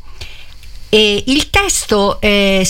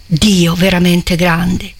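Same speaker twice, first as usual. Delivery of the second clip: exclaiming; slower than usual. Acted. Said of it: "esclamò".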